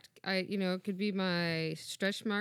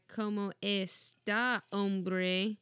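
mock Spanish; much slower than usual. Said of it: "I just sound like".

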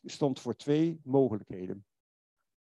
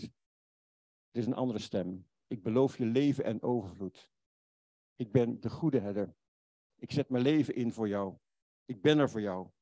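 God's gentle voice; 2 semitones lower than usual. Pretend. Preacher voicing God's gentle invitation to the listener. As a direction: speak it like a tender promise.

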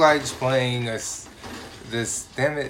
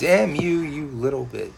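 louder exasperated curse; angry yell; 4 dB louder than usual. Real, not acted. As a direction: snap at the enemy in game. Yelling at game enemy.

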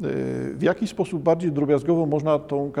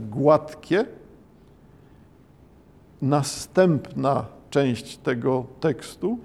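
slow, calm scene-setting; slow evocative narration; slower than usual. Acted. Lecturer guiding students into the haiku, calm slow narration. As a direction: paint the pond scene gently.

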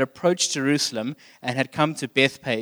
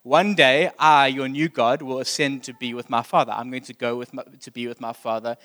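proud emperor. Retold or imitated. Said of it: "is something that Caesar Augustus proclaimed".

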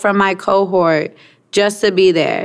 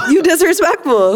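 higher, heated Brooklyn-tinged scolding; mad Brooklyn accent; 8 semitones higher than usual. Real, not acted. Friend mad at host over his mom, Brooklyn accent. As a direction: snap it like an angry Brooklyn native. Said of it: "you sound like you from Brooklyn right now".

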